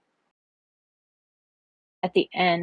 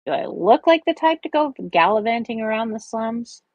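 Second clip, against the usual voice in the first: raised, incredulous rhetorical question; annoyed, higher-pitched retort; 5 semitones higher than usual. Acted. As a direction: push the pitch up as if it's absurd. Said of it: "David asked rhetorically".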